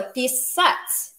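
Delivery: писать with weight on the last syllable; stress on second syllable. Shown as a demonstration. Teacher repeating the verb for learners, писать stressed on its last syllable. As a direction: land firmly on the -ать of писать. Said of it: "Make sure you stress that syllable".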